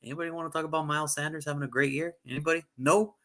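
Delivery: rising, pleading questions to an empty room; mock lonely plea. Podcaster mocking everyone ignoring his player, pleading. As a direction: ask the room, getting no answer. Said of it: "I'm like".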